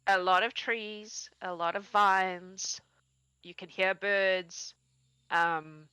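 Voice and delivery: slow, measured scene description; lingering, unhurried narration of the landscape; game master scene-setting. Acted. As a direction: describe the surroundings slowly, item by item.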